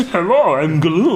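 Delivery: lightly voiced creature, odd timbre; a half-hearted creepy creature hello; Gollum impression. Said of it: "do Gollum from Lord of the Rings".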